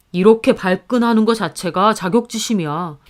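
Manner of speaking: lightly voiced husband, mildly reproachful; a hint of a husband chiding his wife. Husband pressing wife to give his sister a gift, lightly voiced reproach. Husband's accusation in acted quarrel.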